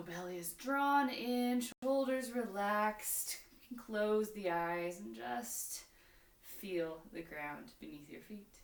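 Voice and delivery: yoga instruction. Real, not acted. Leads yoga practice with breathing cues.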